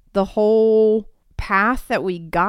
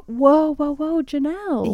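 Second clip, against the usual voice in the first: mock alarm; 8 semitones higher than usual. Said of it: "And I was like".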